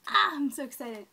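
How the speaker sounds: loud excited outburst; real excitement. Real, not acted. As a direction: burst out with loud delight.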